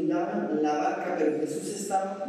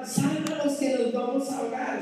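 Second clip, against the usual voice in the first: higher acted plea over the storm; mock cry for help; 7 semitones higher than usual. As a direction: shout for rescue, half acted.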